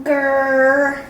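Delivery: low growl through the teeth; a short low dog growl. Acted.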